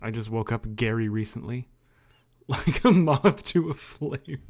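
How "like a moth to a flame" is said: hammed-up delivery. Playful dramatic line.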